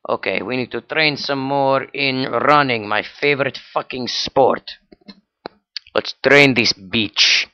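hammed-up Russian accent; Russian coach. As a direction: urge the trainee on in a mock Russian accent. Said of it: "use the Russian strength I gave you".

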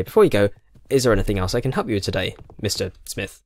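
bright scripted customer service line, fast; chirpy over clear scripted. Retold or imitated. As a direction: rattle off the polite sign-off quickly. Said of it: "I always say this, I say".

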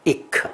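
"一克" as short i plus a released k; sounds said separately. Shown as a demonstration. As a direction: sound out both parts of "一克" distinctly. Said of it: "所以他才要一克". (分开示范“一克”的发音)

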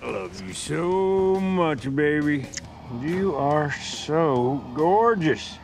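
slow loving croon; tender cooing. Acted. Cooing to his car.

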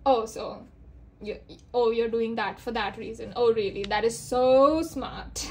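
mock admiration that drips sarcasm; playfully sarcastic quote, dragging out "so smart". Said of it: "there's a lot of sarcasm".

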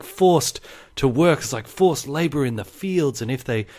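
solemn, slowing history teacher. Retold or imitated. History teacher telling kids of the convicts' suffering, grave and dramatic. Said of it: "he's like".

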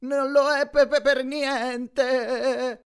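high, juddering stutter shaken by the bed; Grover's voice shaking on the massage bed; vibrating voice. A narrator's reading. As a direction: let the massage rattle every syllable. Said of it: "la voce che vibrava".

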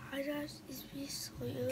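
real quiet, hesitant intro; too quiet. Real, not acted. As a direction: say hello barely loud enough to hear. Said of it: "Can you talk louder?".

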